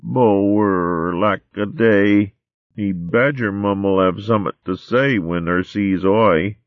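slow, high mole dialect; fretful little mole; worried mole babe. Acted.

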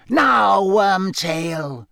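cold voice. Acted. Voldemort turning on Wormtail, cold high voice. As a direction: summon your servant in a high icy tone. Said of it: "said the cold voice".

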